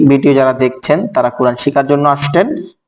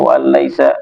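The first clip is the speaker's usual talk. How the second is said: Quran recitation. Shown as a demonstration. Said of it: "আল্লাহ বলছেন".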